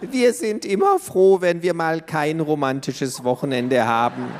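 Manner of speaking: grandma teasing, laughing; laughing granny. A narrator's reading. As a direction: chuckle through it like a grandma. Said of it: "sagte die Oma".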